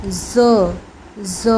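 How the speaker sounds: ज़ said with a voiced buzz; a buzzing ज़, not ज. Shown as a demonstration. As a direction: hum the ज़ through the teeth. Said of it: "तो Z को हम बोलेंगे ज़".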